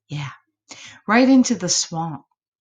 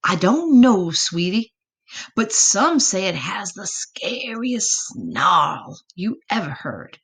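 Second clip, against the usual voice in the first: worried mama. Acted. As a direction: spell out the danger like a fretting mama. Mama describes the monster.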